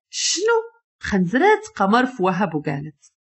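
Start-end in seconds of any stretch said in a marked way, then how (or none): 0.1-0.7 high-pitched, stunned question; wide-eyed, disbelieving yelp at normal volume; shocked. A narrator's reading. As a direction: voice leaps up in shock. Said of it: "عثمان خرج عينيه وقال".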